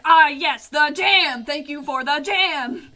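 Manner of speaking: loud, over the top thanks; exaggerated gushing. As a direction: ham up a gushing old man. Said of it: "he was like".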